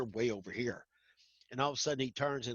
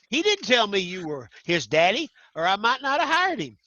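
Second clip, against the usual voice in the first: mock complaint; 6 semitones higher, 10 dB louder than usual. Sheriff retold, joking complaint.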